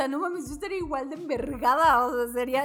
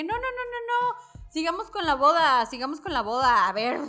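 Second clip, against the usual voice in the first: dismissive brush-off; 4 dB louder than usual. Retold or imitated. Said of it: "así de que".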